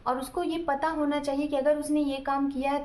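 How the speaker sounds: usual speaking voice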